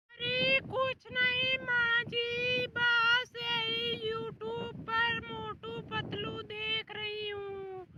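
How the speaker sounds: loud careless reply. Acted. Daughter-in-law answers loudly.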